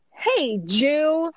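high-pitched, drawn-out hello; phone greeting. Retold or imitated. Repeating Monica's phone greeting, high drawn-out call. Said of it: "and she says".

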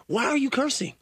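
mocking high question. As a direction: pitch it up in mock outrage. Host repeats question mocking.

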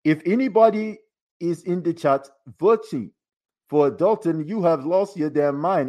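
lightly voiced Black Panther. Shown as a demonstration. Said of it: "I will read this like the Black Panther".

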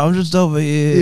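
mock British, playing it up; attempted British accent. Co-host showing off his impression, mock British accent. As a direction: put on a rough British accent. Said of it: "is that the British?".

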